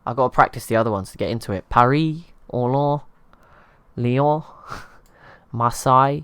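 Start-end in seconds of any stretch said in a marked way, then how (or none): 1.7-4.4 a hammed-up French accent, each city name lifted higher and louder; French accent attempt. Practising French city names, hammed-up French accent. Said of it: "my French accent can't really help me". 5.5-6.2 Marseille as mar-SAI, French style with the r dropped, through a laugh; French accent attempt. Unsure of a French city name, laughing mock French accent. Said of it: "I just say it Marseille in English accent".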